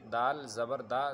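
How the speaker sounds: slow spelling demo of دال زبر دا, final vowel unstretched; short zabar. Shown as a demonstration. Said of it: "زبر کو تھوڑا بھی نہ کھینچے".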